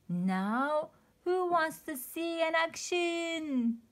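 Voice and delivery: loud, high gloating villain; squealing villain. Acted. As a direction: show off your evil machine. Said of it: "He squealed".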